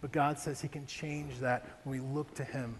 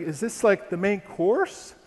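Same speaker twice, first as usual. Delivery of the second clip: mock dismay; 4 semitones higher, 7 dB louder, slower than usual. Dismayed question to wife.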